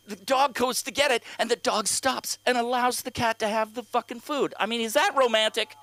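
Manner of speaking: high, incredulous comic rant; exasperated retelling. Acted. Comic retelling Alexa's dog story, exasperated. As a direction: build in pitch as the disbelief grows.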